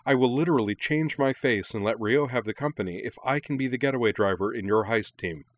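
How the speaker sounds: high, breakneck eager pleading; giddy excitement. A narrator's reading. Minami begs to be the getaway driver, giddy excitement. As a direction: beg to join, tumbling over the questions. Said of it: "getting more and more excited".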